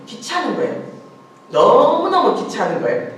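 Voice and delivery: acted-out fed-up exasperation; exasperated. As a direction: stretch 너무너무 out high and loud. Voicing the judge's annoyance at widow.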